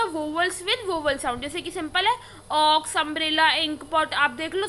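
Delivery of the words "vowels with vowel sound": very slow, spelled-out rule; slow dictation for students; slow rule statement. Shown as a demonstration. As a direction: state the rule slowly so students can write it. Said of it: "N में क्या हो जाएगा".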